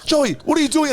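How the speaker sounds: high, laughing imitation of her asking; mock girlfriend. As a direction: pitch up and laugh through the question. Girlfriend voiced in retold call.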